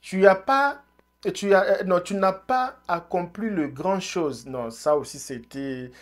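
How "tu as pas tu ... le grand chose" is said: imitating Eto'o. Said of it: "il parlait comme ça".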